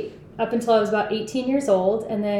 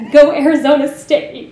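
cheering; 5 semitones higher, 10 dB louder than usual. Acted. Cheering back for the school.

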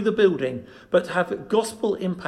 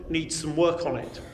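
hallway echo; 4 dB quieter than usual. Real, not acted. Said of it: "As you can hear from the echo of my voice".

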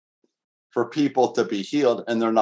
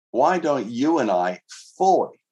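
"fully" leaned on and held; stress on fully; 3 semitones higher than usual. Shown as a demonstration. Pastor pressing the congregation on trust, stressing "fully". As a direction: underline "fully" with the voice. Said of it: "I underline the word fully".

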